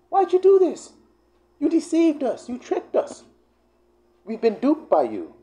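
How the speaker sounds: mock whining Israelites; whiny complaint.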